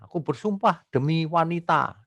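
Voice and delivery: half-play an oath read from a bogus text; mock oath. Preacher quoting a false scripture to congregation, mock oath. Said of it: "membaca suatu bacaan ada".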